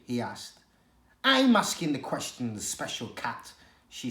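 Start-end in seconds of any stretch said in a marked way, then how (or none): 1.2-3.5 disgusted. Acted. She-cat sneers at the pampered cat, disgusted. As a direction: spit the words with contempt. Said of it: "She sounded disgusted".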